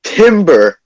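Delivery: playful lumberjack yell; mock timber call. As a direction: call it out like a tree is falling. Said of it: "My nigga John goes".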